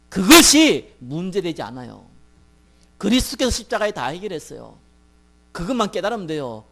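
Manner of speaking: emphatic pulpit exhortation; preacher driving the point home; forceful preaching. Real, not acted. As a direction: press each point on the congregation, punching key openings.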